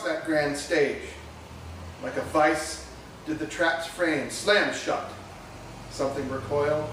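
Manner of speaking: deliberate, dramatic poem reading with pauses between phrases; measured spoken-word delivery; poetry recitation. Real, not acted. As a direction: recite it to an audience, lingering on key words.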